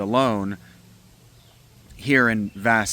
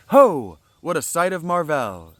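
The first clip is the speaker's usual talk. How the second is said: loud, high cry of wonder; startled exclamation; 8 semitones higher, 8 dB louder than usual. Acted. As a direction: shout out in amazement. Prometheus exclaiming.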